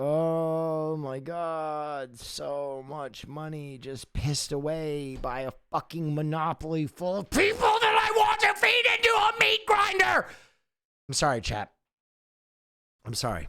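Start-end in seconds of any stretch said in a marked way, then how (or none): 0.0-10.3 fed-up exasperated rant, swooping and rising. Ranting to chat before apologizing: frustrated. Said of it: "I'm a little frustrated, as you can tell".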